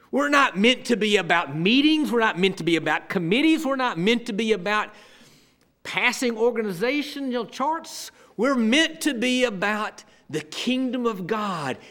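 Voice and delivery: loud, driving sermon delivery; emphatic preaching. Real, not acted. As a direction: drive each repeated phrase home like a preacher. Preaches at full force.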